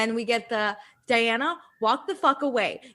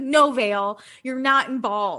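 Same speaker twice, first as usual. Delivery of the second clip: put-on furious yell, drawn out; 3 dB louder than usual. Retelling how Scheana yells at a coworker trying to help: imitating someone yelling. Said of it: "Scheana starts yelling at Vale".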